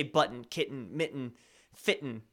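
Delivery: "button, kitten, mitten, fitten" with swallowed T's; Colorado pronunciation. Shown as a demonstration. Streamer listing their Colorado words, T dropped in each. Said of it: "I say".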